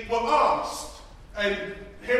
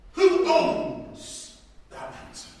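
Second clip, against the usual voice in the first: rising rhetorical questions; 6 semitones higher, 5 dB louder, slower than usual. Acted. Preacher's rhetorical questions building.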